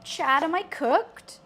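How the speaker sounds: slowly, savouring the phrase; slow, knowing repeat; slow drawn-out catchphrase. Pretend. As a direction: stretch it out like a meme. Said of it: "can't stop saying it".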